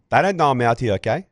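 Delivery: imitated South African cricketer laying down terms; South African accent. Cricketer confronting announcer in the changing room, South African accent. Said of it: "his South African accent that you always im".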